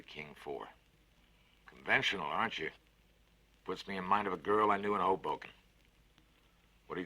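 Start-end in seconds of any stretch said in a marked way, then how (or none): 1.7-5.5 a big cheerful voice, lifted and louder; hearty Fats, louder and higher. Acted. Fats cheers up the scared boy with a bet, hearty and loud. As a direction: sell the bet with gusto. Konski teasing.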